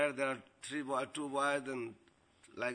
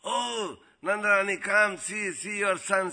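high, loud calling-out; raised voice of an acted alarm; mock shouting; 3 semitones higher, 6 dB louder than usual. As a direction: excitedly call a neighbour over, imitated.

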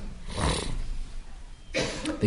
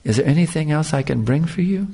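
sweet voice; 3 semitones higher than usual. Retold or imitated. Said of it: "So sweet voice".

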